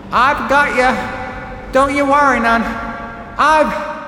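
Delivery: high, loud shouted comfort; big sister shouting comfort while pulling; reassuring shout. A narrator's reading. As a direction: shout comfort over the storm.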